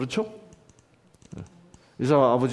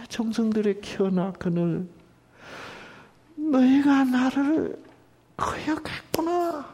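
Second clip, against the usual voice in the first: sorrowful reading; 6 semitones higher, 5 dB quieter than usual. Shown as a demonstration. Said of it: "이렇게 읽는 게 옳겠습니까".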